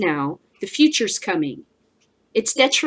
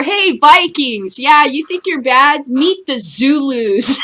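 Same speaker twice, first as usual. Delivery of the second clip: mock taunt; 5 semitones higher, 6 dB louder, slower than usual. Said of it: "Or, or".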